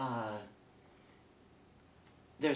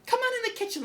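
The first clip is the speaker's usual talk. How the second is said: God welcoming Harry; 5 dB louder, faster than usual. Acted. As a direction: greet him like a jolly host in heaven, pitched way up. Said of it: "God comes up to him and says".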